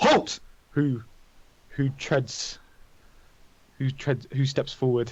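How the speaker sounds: wary, commanding, authoritative delivery. Voicing a knight who spins, hand on sword hilt, halting travelers: commanding knight's challenge. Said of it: "he kind of puts his hand on his sword hilt, and he says".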